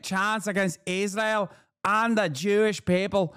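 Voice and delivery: hammed-up parody of the commentator's indignant read; mocking E Fartlaw. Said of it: "my natural, organic Middle Eastern accent".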